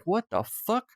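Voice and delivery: high, startled exclamation; mock marines gasping in disbelief; stunned what the fuck. Marines on the hill, stunned, high startled exclamation.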